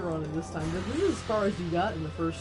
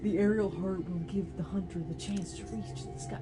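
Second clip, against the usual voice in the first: pretentious narrator voice. Retold or imitated. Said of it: "pretentious poetry".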